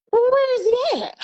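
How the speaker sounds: high, fast panicked question; startled demand; retold alarm. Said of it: "retold alarm".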